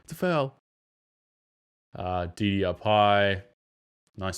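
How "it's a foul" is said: mock disbelief. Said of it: "And we're like".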